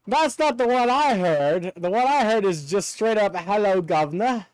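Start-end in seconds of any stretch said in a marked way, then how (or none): 3.4-4.5 lightly put-on British greeting; a hint of stage-British accent. Shown as a demonstration. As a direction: toss it off in a mock British accent. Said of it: "in the British Lee".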